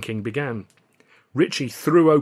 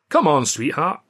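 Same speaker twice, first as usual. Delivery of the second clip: cooing; 5 semitones higher, 6 dB louder than usual. A narrator's reading. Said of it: "he cooed".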